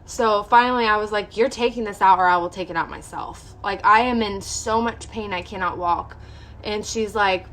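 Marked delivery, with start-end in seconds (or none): 1.4-6.2 retold firm, louder demand; insistent ultimatum. Patient retells demanding the doctor remove it, insistent. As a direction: put your foot down, stressing each point.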